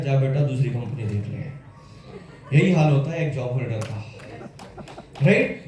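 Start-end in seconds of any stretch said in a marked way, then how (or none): 0.0-2.6 lower, slow, brushing-off boss voice; low, slow contemptuous dismissal; dismissive boss. Retold or imitated. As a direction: send him off like squeezed cane. Company dismissing used-up worker.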